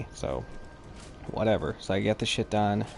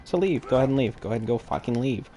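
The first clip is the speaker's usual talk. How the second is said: retold eruption. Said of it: "I just immediately erupted".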